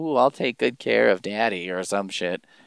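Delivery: put-on ominous delivery. Recapping a story's ending, acting out the daughter's line mock-ominously. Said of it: "is like ominously saying".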